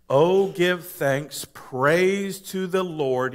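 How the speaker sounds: slow, weighty reading of the verse; slow emphatic verse. Shown as a demonstration. Pastor driving the verse home, slow and weighty. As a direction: lean on each word slowly. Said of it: "So think through this".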